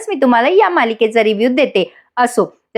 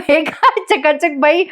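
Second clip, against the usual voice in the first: mock yelling; 4 semitones higher than usual. Imitating Jiva yelling up at Nandini about the bucket, mock yell. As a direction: imitate an indignant yell without the volume. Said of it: "तो ओरडून म्हणतो".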